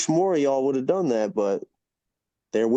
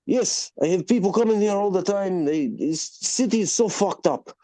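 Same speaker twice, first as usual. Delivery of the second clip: lightly voiced restaurant owner, pitched up; 7 semitones higher than usual. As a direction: imitate a world-weary owner griping to customers. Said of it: "he sits us down and he goes".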